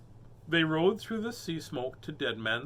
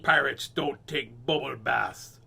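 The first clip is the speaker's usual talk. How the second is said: sputtered; 2 semitones lower, 4 dB louder, slower than usual. Acted. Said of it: "sputtered the terrible".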